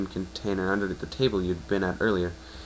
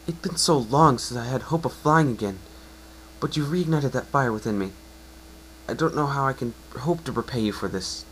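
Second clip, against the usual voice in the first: emotional voice; 4 semitones higher than usual. Acted. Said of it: "I have to do an emotional voice".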